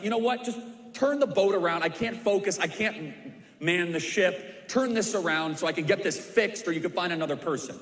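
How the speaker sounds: imitating an annoyed officer who wants to turn back. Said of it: "gets really annoyed and irritated".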